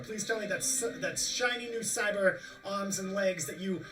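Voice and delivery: hungry for chrome, pushing them; L A, greedy. Acted. L A eyes the crew's loot, greedy and eager. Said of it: "hacker and goes".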